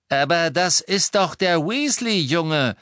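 loud, high exclamation, drawn out; called out. A narrator's reading. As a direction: cry out as you recognise him. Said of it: "rief Lucius". (laut rufend, hoch und gedehnt)

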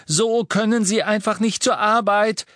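high loud shout. A narrator's reading. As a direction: yell it at him firmly. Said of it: "schrie Hermine".

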